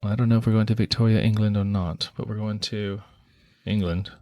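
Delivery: lightly put-on British accent. Host setting the scene in England, British accent. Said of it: "bust out your British accent".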